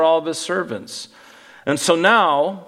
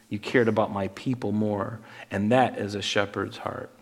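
gentle God; 6 semitones lower than usual. Retold or imitated. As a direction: voice God tenderly reassuring Solomon, low and hushed. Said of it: "And he's like".

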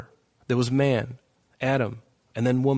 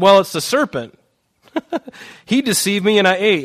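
Eve excusing herself; 7 semitones higher, 6 dB louder than usual. Acted. Eve blames serpent, acted, laugh.

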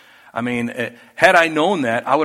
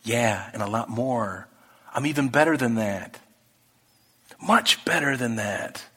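voice of God; 3 semitones lower, 5 dB quieter than usual. Retold or imitated. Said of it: "you can almost hear him from the cloud saying".

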